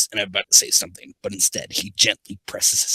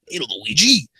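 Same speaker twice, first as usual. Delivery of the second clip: raised Italian cartoon plumber voice; Hotel Mario; 4 semitones higher, 4 dB louder than usual. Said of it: "Sonic's gonna be Hotel Mario".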